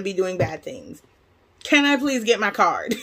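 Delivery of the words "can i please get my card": laughing through a weary request; laughing plea. Real, not acted. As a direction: chuckle while begging for the card. Laughs off her bank ordeal.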